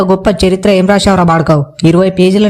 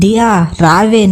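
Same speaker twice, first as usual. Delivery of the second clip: slow, stretched call across the way, rising on దియా; drawn-out call; much slower than usual. Acted. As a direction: stretch out దియా రావే like hailing her from afar. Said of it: "ఎందుకు అలా అరుస్తున్నావు". (దియా రావే అని సాగదీసి పిలవడం)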